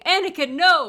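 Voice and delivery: high, loud meme-style cry; Obi-Wan screaming in dismay, hammed up; mock scream. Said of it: "it's just Obi-Wan screaming".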